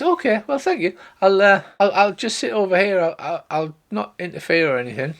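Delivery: put-on very high, timid young girl; meek girl. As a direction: shrink back and apologise. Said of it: "She says".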